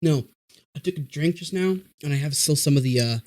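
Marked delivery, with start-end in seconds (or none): 0.0-0.3 talking through a mouthful of cracker; words around a bite of food; mouth full. Real, not acted. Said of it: "cracker with the chocolate and stuff in my mouth".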